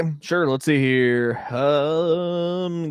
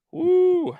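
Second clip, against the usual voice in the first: high excited whoop; 4 dB louder than usual. Real, not acted. Friend whoops after reading the keelhauling facts. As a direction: let out a wild whoop. Reacting to grim history.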